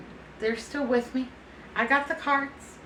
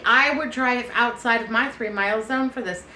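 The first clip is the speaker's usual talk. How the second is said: normal talking voice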